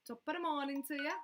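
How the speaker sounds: hammed-up Irish accent. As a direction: put on a cheery Irish greeting. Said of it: "That is Irish".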